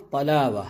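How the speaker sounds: "طلاوہ" with a thick T made far back; heavy first letter. Shown as a demonstration. Teacher repeating the example for learners, thick T in "طلاوہ". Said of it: "پہلا حرف طا ہے".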